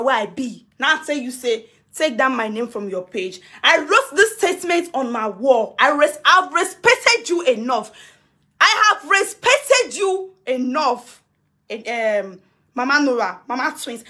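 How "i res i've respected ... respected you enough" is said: respected stretched and stressed; measured, cold reproach; slow emphatic scolding. Real, not acted. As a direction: drag out every word to make it land. Scolding Mama Nura.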